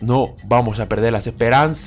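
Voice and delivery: last vowel of "esperanzas" held very long. Real, not acted. Gamer clinging to hope during the draw, long held ending. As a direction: stretch the end of "esperanzas" while waiting. Repeat stretched over the draw.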